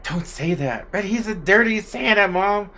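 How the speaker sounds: put-on a kid insisting to her mom; small girl arguing back to her mother; little girl protesting.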